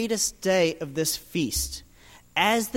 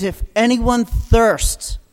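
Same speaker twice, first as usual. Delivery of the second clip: proclaiming; 2 semitones higher, 6 dB louder than usual. Retold or imitated. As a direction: announce it to the whole crowd. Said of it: "and proclaimed".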